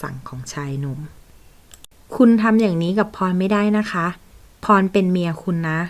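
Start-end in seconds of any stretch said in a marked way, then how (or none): 1.6-5.8 louder and higher, slowed protest; indignant protest. Acted. Rejected secretary demands her place as his wife, loud and indignant. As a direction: raise the voice, insist on your rights.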